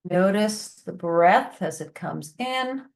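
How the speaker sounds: calm, unhurried guiding voice with long pauses; guided breathing meditation. Shown as a demonstration. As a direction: lead them gently through the breaths, leaving space between phrases.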